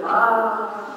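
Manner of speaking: playful mock dinosaur roar; drawn-out, half-hearted dinosaur growl. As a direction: roar lightly like a pretend dinosaur. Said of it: "he would be a dinosaur".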